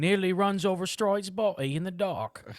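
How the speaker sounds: high, put-on English accent. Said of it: "You gotta read this thing in English accent".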